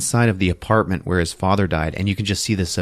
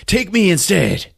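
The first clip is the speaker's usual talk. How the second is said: much higher, drawn-out mock plea; desperate acted plea; 11 semitones higher than usual. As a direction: plead urgently, high and stretched out. Acted plea, escalated repeat.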